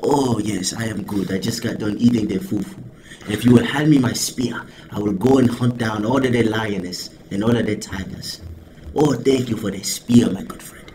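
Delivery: imitated African accent, trailing off softly. Shown as a demonstration. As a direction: chat politely in a mock African accent. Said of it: "It's the African accent".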